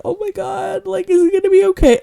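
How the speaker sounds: high-pitched, fast mock panic; retold freak-out. Tearful viewer fretting over the hero, retold freak-out. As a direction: replay a worried viewer's panic, high and rushed. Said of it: "I'm, like, freaking out".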